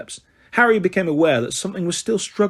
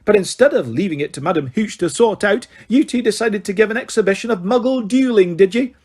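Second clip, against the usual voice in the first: high, raised sarcastic tirade; bellowing teacher; 5 semitones higher than usual. Acted. McGonagall bellowing at the boys, sarcastic. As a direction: bellow the accusation at them. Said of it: "bellowed Professor McGonagall".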